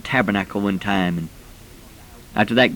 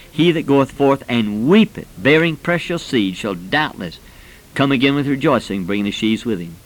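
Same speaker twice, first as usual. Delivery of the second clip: scripture recitation. Acted.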